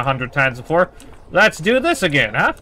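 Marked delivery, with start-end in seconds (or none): none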